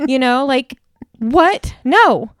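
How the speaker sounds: high, slow, mad, exasperated yell. Complaining about a city presentation on surveillance, then apologizing: yelling. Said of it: "Sorry, y'all, for yelling".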